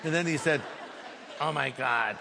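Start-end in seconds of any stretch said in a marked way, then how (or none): 1.4-2.2 mock stunned gasp. Man realizes pastor is there.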